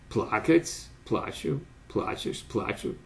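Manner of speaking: "плакать, плачу, плачешь, плачу" stressed on the first syllable throughout; fixed stem stress. Shown as a demonstration. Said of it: "constant stress on a fixed stem syllable".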